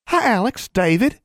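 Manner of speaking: put-on very high, eager girl's greeting; high-pitched little girl voice; Innocence. A narrator's reading. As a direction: greet them as an excited little sister. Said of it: "she greeted them".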